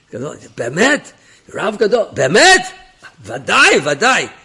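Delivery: high, loud astonished exclamations; amazed. Retold or imitated. Officer hears of a great rabbi, amazed and loud. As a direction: exclaim in awe, pitch leaping up.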